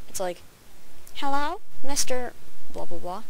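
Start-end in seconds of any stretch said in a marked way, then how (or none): 1.2-3.2 loud, higher-pitched mock greeting; playacted loud visitor; visitor greeting boss. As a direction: call out a hello to the boss.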